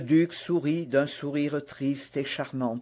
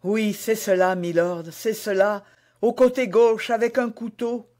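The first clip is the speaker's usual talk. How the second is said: higher-pitched, astonished queen; startled confirmation; 4 semitones higher than usual. Acted. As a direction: confirm it with growing agitation. Queen startled that he knows her dream. (confirmation troublée, voix qui monte)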